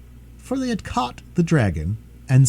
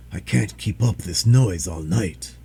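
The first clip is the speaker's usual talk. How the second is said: lower, slow complaining dragon; weary dragon; 5 semitones lower, slower than usual. Acted. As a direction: drag it out, fed up.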